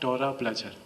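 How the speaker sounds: soft, even, emotionless tone; understated hypnotic demo; flat suggestion. Shown as a demonstration. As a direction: say it quietly and levelly. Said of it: "kalau nadanya itu datar".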